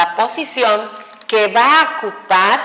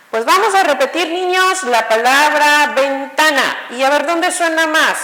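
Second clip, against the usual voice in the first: lightly voiced schoolteacher, pitched higher; imitated primary teacher; 4 semitones higher than usual. Teacher recalling how children were instructed, lightly imitated schoolteacher. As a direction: mimic a teacher addressing small children. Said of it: "desde pequeños nos decían".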